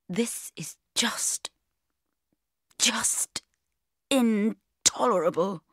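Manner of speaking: slow, breathy-free hushed whisper of despair. Acted. Woman hiding in the office toilets, whispering in despair. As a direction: whisper it through clenched misery.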